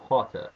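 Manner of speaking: "Potter" with a hard T and no final R; crisp British T. Shown as a demonstration. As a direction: hit the T in "Potter", British style. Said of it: "Like, with two T's".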